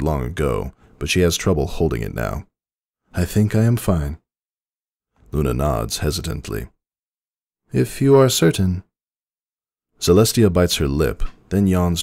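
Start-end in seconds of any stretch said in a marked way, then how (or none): 3.1-4.2 higher, gentle princess voice; Celestia's voice. A narrator's reading. 7.7-8.8 much higher, concerned younger sister; a high, fretful princess voice; Luna's worried voice. A narrator's reading. Luna voiced in story.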